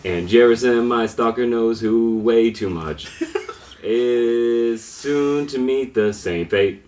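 slow, sing-song villain speech; slow gravelly statesman. Acted. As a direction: drag out each phrase musically. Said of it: "Is that how you read things in your head?".

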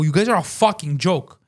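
contemptuous, emphatic retort; retold screaming. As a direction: tell them off in a retelling. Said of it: "as I'm screaming".

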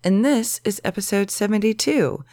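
hoarse, inflamed sick voice. Real, not acted. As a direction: talk through a sore, sick throat. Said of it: "I've got my sexy sick voice on".

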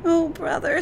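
put-on a little girl crying out in fear; high, fearful little sister; frightened girl. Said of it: "said Natsu".

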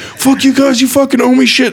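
high, loud furious retort; hammed-up crazy hippie shouting; mock hippie yelling. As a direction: scream it back at them, way up high. Hippie yelling back at guards.

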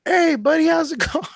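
high-pitched, laughing hello; overfriendly greeting. Retold or imitated. Mail carrier re-enacting his greeting at the van window, high and overfriendly. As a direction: play a startled, too-friendly greeting.

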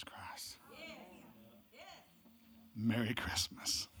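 preacher hushing the room at the gospel's heart; hushed. Real, not acted. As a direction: drop to a whisper on the key truth. Sermon drops to hushed climax.

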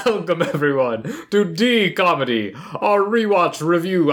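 a hint of a vampire welcome. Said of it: "use my vampire impression".

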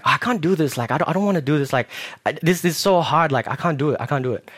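lightly acted childish complaint; frustrated kid. Drum pupil complaining to teacher, mildly frustrated. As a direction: whine a little, ready to give up. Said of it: "a very frustrated kid".

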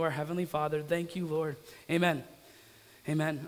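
subdued, unhurried pastoral prayer. Real, not acted. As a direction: lead a congregation gently in earnest prayer. Leads the congregation in prayer.

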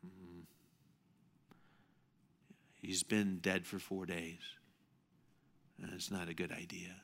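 hushed, reluctant sister pleading; soft retold Martha. Martha voiced softly in story.

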